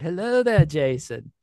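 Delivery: lightly voiced British star impression; Ewan McGregor. Celebrity charging Jason for an autograph, mock impression. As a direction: put on a hint of a weary celebrity. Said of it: "when Ewan McGregor said".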